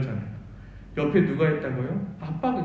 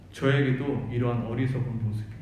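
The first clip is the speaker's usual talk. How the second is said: 저에게도 repeated lower, as if to himself; lower echo; 5 semitones lower than usual. Shown as a demonstration. Preacher repeating his confession, lower and inward. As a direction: drop the pitch and let 저에게도 sink inward. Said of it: "저에게도 이러한 어리석은 모습이 있었습니다".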